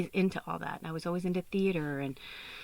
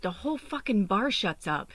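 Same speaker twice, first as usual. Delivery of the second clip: retold exasperation, pitched up; going off on someone; 4 semitones higher than usual. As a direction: mimic a friend's indignant rant. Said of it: "kinda went off on me".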